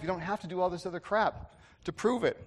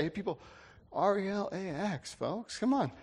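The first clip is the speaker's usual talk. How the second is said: higher, softened, easygoing quarterback imitation; relaxed; 4 semitones higher, 5 dB quieter than usual. Quarterback to his worried fans, relaxed. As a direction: spell it out slowly, coaxing the fans. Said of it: "so relaxed and able to say".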